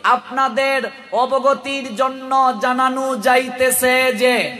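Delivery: slow public announcement delivery; drawn-out imitation of a loudspeaker announcer; imitated mic announcer. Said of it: "মাইকে announce করে".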